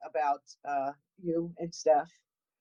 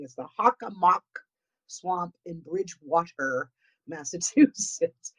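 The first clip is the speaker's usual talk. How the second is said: said slowly. Shown as a demonstration. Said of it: "I'm gonna say it a little bit slower".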